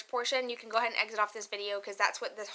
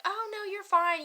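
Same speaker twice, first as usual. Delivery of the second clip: imitating IRS agent; 9 semitones higher than usual. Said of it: "they're like".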